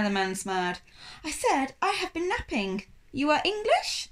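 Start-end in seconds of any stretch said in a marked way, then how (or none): 1.2-4.1 put-on French accent. A narrator's reading. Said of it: "His accent was thickly French".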